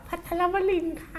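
high, soft feigned confusion; mock sweet lady. Mother stalling a scam caller, sweet high voice. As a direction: play the innocent lady who didn't catch it. Mom gives fake name.

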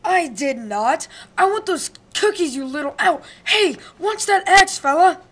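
pained protest. Acted. Wolf hit by an axe.

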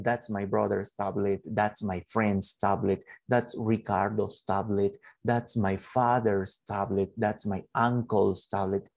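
slow, even listing of examples; teacher modelling English slowly. Shown as a demonstration. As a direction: read the list at dictation pace. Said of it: "Puedo decir".

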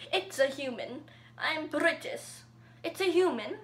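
lightly attempted British accent; bad British accent. YouTuber voices Papyrus for viewers in a poor British accent. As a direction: try a clumsy British accent. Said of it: "Fort Papyrus in a British accent".

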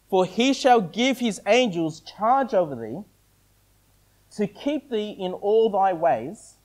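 measured, deliberate scripture reading; slow reading. Real, not acted. Preacher reading a psalm so listeners spot what's missing, slowly. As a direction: read it out slowly, leaving a long pause between phrases. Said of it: "I'll read it slowly".

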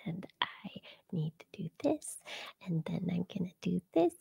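soft unvoiced whisper. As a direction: whisper it like a secret. Whispered outro tag.

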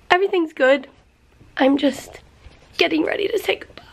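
high, tearful voice giving out; fighting back tears. Real, not acted. Owner getting ready to say goodbye, choking up. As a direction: reassure through real tears, voice thinning. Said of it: "trying to fight back tears".

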